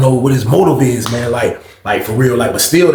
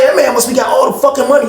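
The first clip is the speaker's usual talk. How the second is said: louder insistent take; 7 semitones higher than usual. Retold or imitated. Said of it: "too much going on".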